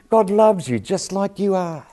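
slow, tender offer of love; gentle demo. Shown as a demonstration. Preacher showing how to tell a lady, slow and tender. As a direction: say it slowly, kindly to her. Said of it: "How is it, lady?".

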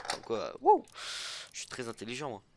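mock himself for the slip; self-mocking sarcasm. Real, not acted. Mocks himself for a date mix-up. (autodérision sarcastique, « wow » aigu)

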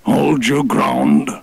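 loud, high, slow battle cry; a drawn-out war shout. Acted. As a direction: bellow the order to stand firm. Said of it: "One Drake shouts out".

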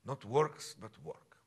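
correcting the plural; stress on work. Shown as a demonstration. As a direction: lean hard on the word works. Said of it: "as a work".

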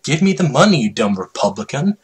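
high, loud angry demand; yelling at someone on social media. Acted. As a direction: bark out a crude insult. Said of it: "and said".

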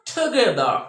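"টুগেদার" with a puffed t; aspirated T. Shown as a demonstration. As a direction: release the t of "টুগেদার" on a burst of air. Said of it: "এভাবে বলতে হবে".

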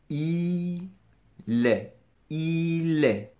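"Il est" slow, long "i", then "lè"; consonant enchaînement. Shown as a demonstration. Teacher asks learner to listen, slow syllable-split demonstration. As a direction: stretch the "i" and move the l onto "est". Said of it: "Écoute bien".

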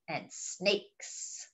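whispered narration. A narrator's reading. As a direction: hush it like a secret. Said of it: "He whispers tales".

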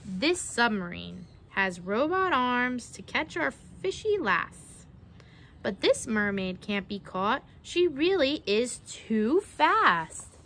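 measured picture-book storytelling; reading to children. Acted. Narrator reading a mermaid-trapping rhyme to children, storytelling. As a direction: read it out with a lilting rhyme.

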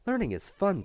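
very high, loud singsong "Learning is fun"; hearty teacher voice. Acted. Teacher chirping to Matt in very high singsong. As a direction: chirp it like a robotic cheerleader. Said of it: "in a hearty voice".

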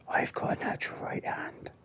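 soft unvoiced ASMR whisper. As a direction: breathe it like an ASMR video. Mocking ASMR channel whisper.

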